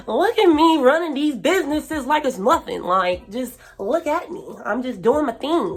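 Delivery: boasting to yourself with a laugh; self hype. Shown as a demonstration. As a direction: hype yourself up like a proud boss. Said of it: "hype yourself up".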